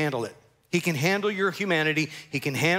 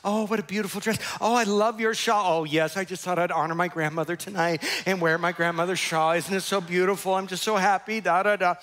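higher, put-on church-lobby cheer; mock sweetness, overdone; fake happy gushing; 5 semitones higher than usual. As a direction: imitate someone gushing to keep up appearances. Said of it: "they're just putting on the show. They're so happy".

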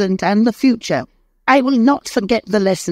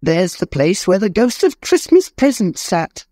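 put-on much higher, giddy joyful old man; overjoyed Scrooge. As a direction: bubble over with joy like a new man. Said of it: "He danced".

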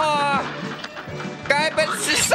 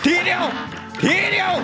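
excited shout; 11 semitones higher than usual. Real, not acted. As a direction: yell in panic at the game. One hit left, tense boss fight.

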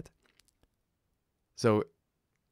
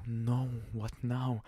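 hushed, breath-filled worry; retold inner dread; 2 semitones higher, 4 dB quieter than usual. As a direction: sink into a half-whispered mock dismay. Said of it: "It was such a disaster".

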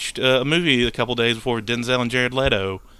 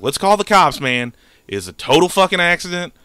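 urgent plea; 4 semitones higher than usual. Retold or imitated. Panicked suggestion after crash.

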